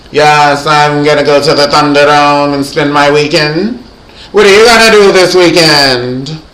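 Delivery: mock a grand French Riviera accent; a singer's French Riviera accent. A singer talking weekends, put-on French Riviera accent. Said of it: "she has a French Riviera accent".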